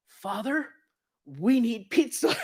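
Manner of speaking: high, loud, slow "we need pizza"; confident plea. Retold or imitated. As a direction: ask with total confidence. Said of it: "Lloyd, goes".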